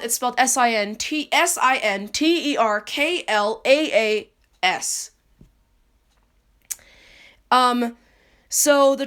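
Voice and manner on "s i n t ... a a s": slowly spelling it letter by letter, S I N T E R K L A A S. Shown as a demonstration. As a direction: spell S I N T E R K L A A S out one letter at a time. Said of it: "if you wanna know how it's spelled".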